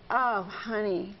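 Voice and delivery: a slow, mock-sad sigh of a drained mom; dramatic sad parent. Shown as a demonstration. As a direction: ham up the sadness, slowly, lightly. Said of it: "and you get dramatic".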